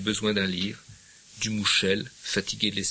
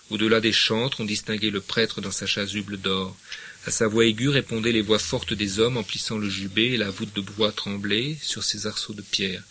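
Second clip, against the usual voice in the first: calm literary reading aloud; story narration. Acted. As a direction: read the midnight mass scene gently. Reads the novel aloud.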